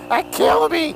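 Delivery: high, loud words through real laughter; laughing. Real, not acted. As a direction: speak while cracking up. Still cracking up at own joke.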